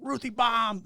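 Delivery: high, loud announcer shout; wrestling announcer call. Retold or imitated.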